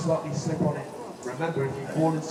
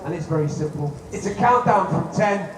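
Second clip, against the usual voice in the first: put-on overbright kids party host; 3 semitones higher than usual. Hyping up the crowd.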